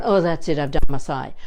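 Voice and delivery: slumped, done-with-it tone; deflated giving up. Shown as a demonstration. Teacher showing a slumped finish, mock deflated. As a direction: sound like you've given up. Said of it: "I haven't gone".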